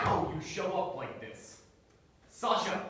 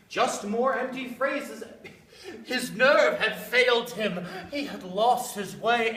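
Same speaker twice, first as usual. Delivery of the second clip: mocking laugh; 3 semitones higher, 3 dB louder than usual.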